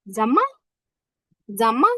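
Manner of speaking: "জামা" with an m sound, rising at the end; third tone. Shown as a demonstration. Teacher models the word for "how", third-tone demo. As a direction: say "জামা" singly, lifting the last syllable. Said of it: "এটা হচ্ছে আমাদের third tone".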